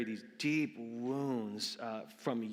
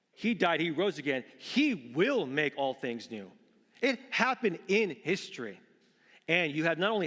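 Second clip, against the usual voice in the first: emphatic, louder pulpit proclamation; fervent sermon declaration; impassioned preaching; 5 semitones higher, 7 dB louder than usual. Real, not acted. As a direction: proclaim it with force. Preaches at full force.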